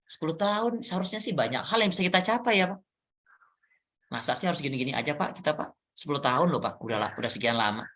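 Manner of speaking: a teacher complaining to the principal, lightly voiced and weary; frustrated colleague. Shown as a demonstration. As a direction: sigh it out like someone stuck for ten years. Coach role-plays complaining teacher.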